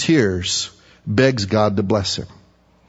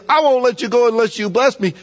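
commanding; 11 semitones higher than usual. Shown as a demonstration. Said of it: "He's not saying".

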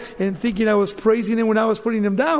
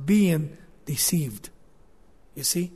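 whispered; 4 semitones lower, 4 dB quieter than usual. Real, not acted. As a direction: breathe being deceived almost without voice. Preacher drops to hushed aside.

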